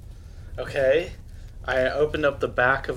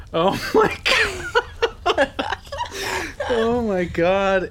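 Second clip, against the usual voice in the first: squealing high, slow, laughing; overwhelmed gushing fan, high and drawn out; screaming crying fan; 11 semitones higher, much slower than usual. Real, not acted. Flips over the fan-art gift.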